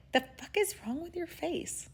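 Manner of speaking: high, hushed, incredulous aside; hushed disbelief. Retold or imitated. Judge to the winking grandfather, hushed disbelief.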